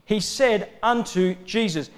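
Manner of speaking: "He said unto Jesus" with each word set apart; "He said unto Jesus" as a deliberate, weighted statement; emphatic repetition. Real, not acted. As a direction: underline "said", "unto" and "Jesus" separately. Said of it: "we need to emphasise that".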